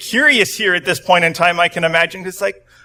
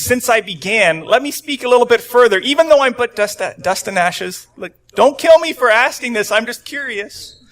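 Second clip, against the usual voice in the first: higher, anxious pleading Abraham; timid Abraham; 6 semitones higher than usual. Retold or imitated. Abraham bargaining with God, pitched up and pleading. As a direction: ask nervously, bargaining upward. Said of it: "he continues".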